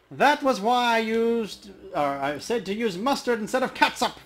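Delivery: high, slow, loud troll muttering to spirits; mumbling troll. Acted. Troll's other conversations.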